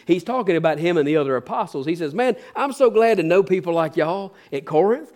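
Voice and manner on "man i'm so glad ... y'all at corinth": lightly mocking praise, as if impressed; seething sarcasm. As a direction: feign admiration with a sarcastic edge. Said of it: "put a little seething sarcasm in there".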